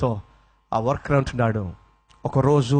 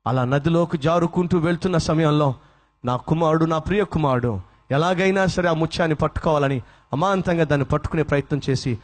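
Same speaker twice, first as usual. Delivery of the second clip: normal talking voice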